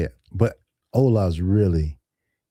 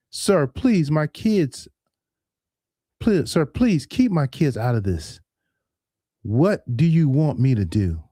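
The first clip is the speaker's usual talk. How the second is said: hammed-up begging, higher; dramatic pleading; 5 semitones higher than usual. Pleading with the scammer in mock panic. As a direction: mock-desperate plea for his kids. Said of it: "was being a little dramatic".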